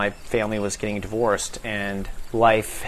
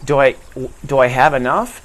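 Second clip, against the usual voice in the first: anxious inner worry; 3 dB louder than usual. Shown as a demonstration. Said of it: "the whole conversation inside your head".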